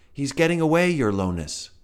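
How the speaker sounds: high, loud alarmed cry; a frantic guard bug shouting to the king; guard's alarmed shout. A narrator's reading.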